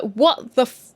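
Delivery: high, cut-off shocked curse with a laugh; laughing what. Retold or imitated. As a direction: cut off the swear in disbelief. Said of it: "And she's like".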